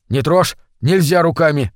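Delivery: a touch of a shout; mild yell. Acted. Fish seller warns Витя off the fallen fish, mild yell. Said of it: "торговец заорал на него".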